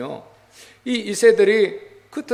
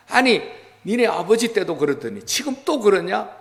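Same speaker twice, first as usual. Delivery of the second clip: exasperated anger; 3 semitones higher than usual. Acted. Preacher voices Moses scolding the second generation, exasperated. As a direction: tell them off in mild mock exasperation. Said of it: "막 화가 난 거예요".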